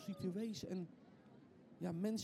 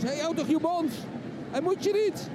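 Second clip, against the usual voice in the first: irritated rebuke; 8 semitones higher, 11 dB louder than usual. Acted. Crowd silences the blind man.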